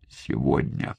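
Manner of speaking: soft, barely voiced breath of a word; just move the lips and breathe it; faint exhaled word. A narrator's reading. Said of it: "Одними губами выдохнул он".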